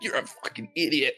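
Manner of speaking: playful imitation of a name-caller; mock heckler insult. Jokey impression of heckler, then laughs.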